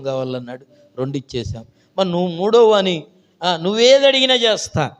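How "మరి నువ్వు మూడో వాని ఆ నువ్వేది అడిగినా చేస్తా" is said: high, loud, insistent offer; lightly voiced king. King urging the third youth, loud and insistent. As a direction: press the gift on him.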